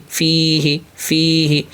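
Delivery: فی ہی with a long ی; joined syllables. Shown as a demonstration. Teacher modelling the joined reading. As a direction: read فی ہی carefully. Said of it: "نون یا زیر نی".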